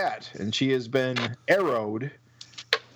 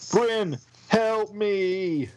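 mouth at waterline; 8 semitones higher, much slower than usual. Acted. Collar drags her under water.

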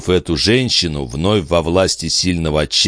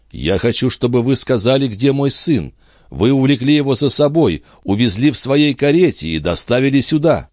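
higher, insistent voice of a distressed father; accusing father; 7 semitones higher than usual. Acted. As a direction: press the accusation, pitch lifted. Жильбер обвиняет Андре. (отец обвиняет, взволнованно и повышенным тоном)

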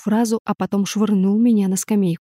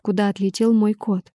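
plain reading voice

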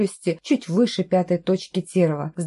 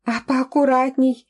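higher, sharper complaint; exasperated complaint; 6 semitones higher than usual. A narrator's reading. Heroine losing patience with the man carrying her, higher. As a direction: snap at the carrier to be careful. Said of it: "не вытерпела я".

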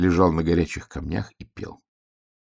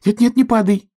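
high, louder pleading piglet; pleading cry; 6 dB louder than usual. A narrator's reading. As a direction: cry out in a panic for the star not to fall. Piglet begs star.

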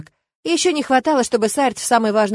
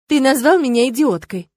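offended; 5 semitones higher, 6 dB louder than usual. A narrator's reading. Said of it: "обиженно просипела я".

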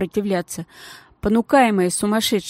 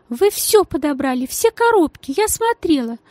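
much higher, suspicious insisting; suspicious lady insisting in a high voice; insistent lady; 8 semitones higher than usual. Acted. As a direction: press the girl, high and pointed.

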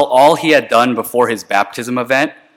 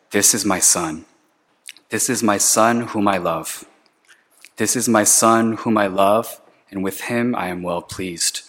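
softer, gently repeated blessing; tender affirmation; 4 dB quieter than usual. Shown as a demonstration. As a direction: say it like a father quietly affirming his son. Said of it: "God made it a point to affirm Jesus".

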